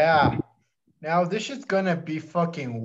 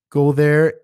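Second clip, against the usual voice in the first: loud call; 8 dB louder than usual. Real, not acted. Urging listeners to sign up.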